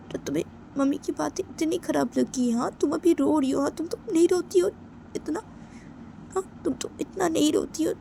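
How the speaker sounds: high-pitched, worked-up reasoning; agitated insistence. Acted. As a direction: keep the voice up high, pressing the point. Agitated, reasons why friend cries.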